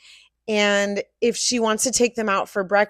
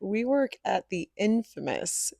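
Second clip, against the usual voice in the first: slow, louder, showy announcement; announcer voice; 6 dB louder, slower than usual. Acted. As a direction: present it like a big reveal. Mock grand announcement.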